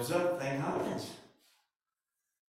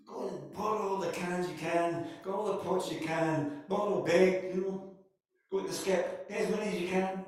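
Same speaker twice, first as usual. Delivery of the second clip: eager urging; 5 semitones higher than usual. Acted. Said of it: "The prophet says".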